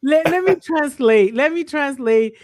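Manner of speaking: teasing wife jumping in loudly; emphatic interruption. Real, not acted. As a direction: cut in to set the record straight. Jumping in to correct him.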